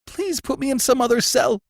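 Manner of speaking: accused prisoner gasping his defence; gasped. A narrator's reading. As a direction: gasp it out in panic. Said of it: "gasped the prisoner".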